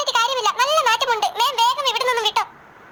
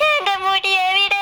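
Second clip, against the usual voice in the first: crying; 3 semitones lower, slower than usual. Acted. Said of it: "മുടി കാണായിട്ട് കരയുന്നതാ".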